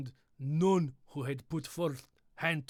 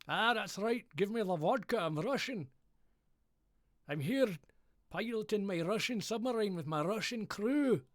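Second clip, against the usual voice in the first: Sean Connery voice; 5 semitones higher than usual. Retold or imitated. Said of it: "Sean Connery".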